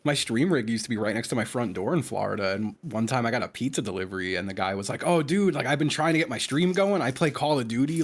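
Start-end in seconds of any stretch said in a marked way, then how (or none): 5.0-8.0 eager fan quote. Retold or imitated. Voices eager pizza delivery guy.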